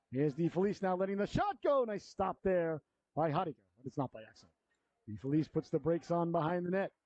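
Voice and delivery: brisk live play-by-play; hockey announcer. Real, not acted. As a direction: call the game as it happens.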